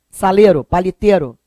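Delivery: "Saleiro, paliteiro" as "salêro, palitêro"; pronúncia carioca sem ditongo. Shown as a demonstration. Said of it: "O carioca não fala aquele ditongo". ("Saleiro, paliteiro" com E puro, sem o I)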